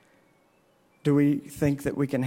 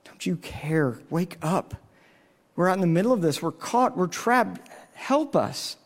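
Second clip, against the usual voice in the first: pleading, pitched up, frightened men in a storm; desperate disciples crying out; 4 semitones higher than usual. Retold or imitated. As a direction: cry out like the panicked disciples. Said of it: "They begin to cry out".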